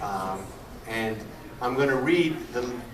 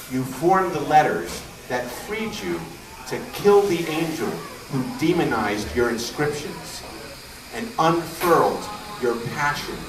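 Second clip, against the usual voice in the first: raised, emphatic poem reading with measured pauses; poetry recitation; 2 semitones higher than usual. Acted. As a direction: declaim each phrase, lifting it and letting it fall.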